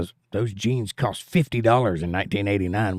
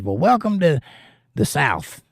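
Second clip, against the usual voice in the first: put-on Southern accent; 5 semitones higher than usual. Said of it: "totally put on Southern accent".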